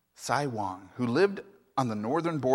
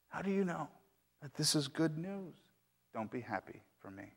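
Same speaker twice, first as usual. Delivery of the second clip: calm, lifted; 3 semitones higher, 9 dB quieter than usual. Acted. Old man gently presses the neighbors, then trails off. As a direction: lift the repeat, then let it fade away. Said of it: "Sai Wang calmly said".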